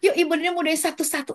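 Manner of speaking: mock call to the class; memanggil murid sekelas. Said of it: "nggak mungkin begini". (seperti guru memanggil anak-anak dengan nada tinggi)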